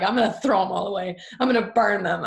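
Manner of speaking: imitating an exasperated husband; frustrated, impatient. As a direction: act out someone fed up, half laughing-matter. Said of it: "frustrated and impatient".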